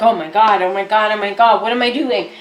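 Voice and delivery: mock panic. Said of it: "let's say you're panicking".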